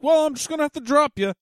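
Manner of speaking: high, loud mock announcement; Skylinks. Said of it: "he was just like".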